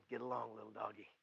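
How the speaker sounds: hushed, low coaxing; soft, low murmur of encouragement; voice of God. Acted. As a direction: urge them along gently, falling to a whisper. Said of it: "that God's going".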